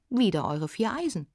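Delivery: greedy demand. Acted. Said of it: "verlangte der gierige Wirt".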